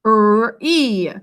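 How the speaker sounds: "R, E" as a held rrr, then long ee; "R, E" drawn apart; separate letter sounds. Shown as a demonstration. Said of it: "what do you hear?".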